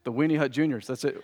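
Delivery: ordinary talk, nothing marked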